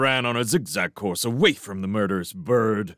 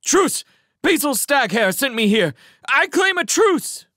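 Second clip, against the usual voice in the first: much higher and louder desperate yell; yelling at the top of his voice; 6 dB louder than usual. Acted. Mouse yells truce at the attacking owl, shouting. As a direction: scream for a truce at the diving owl. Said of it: "yelled at the top of his voice".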